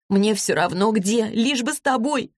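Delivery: high, slow tearful plea; sobbing. A narrator's reading. Vasilisa begs to stay with Zlata, tearful and high. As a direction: plead through tears, pitched high. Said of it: "рыдала Василиса".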